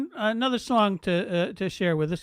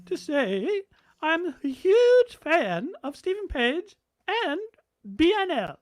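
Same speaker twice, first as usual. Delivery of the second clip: high, slow regal royal voice; lofty queenly manner; 6 semitones higher than usual. Retold or imitated. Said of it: "heard Her Majesty the Queen sing".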